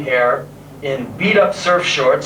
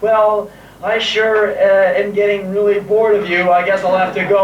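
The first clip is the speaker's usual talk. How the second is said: polite excuse; 3 semitones higher than usual. Retold or imitated. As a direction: drag out a fake excuse. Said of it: "she'll make up some polite excuse".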